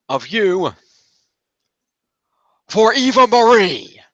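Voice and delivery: high-pitched mock Foley, slowing and swelling into the reveal; Foley teasing. Foley springs the trade on Sami, high and building. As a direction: draw out the twist like a smug boss.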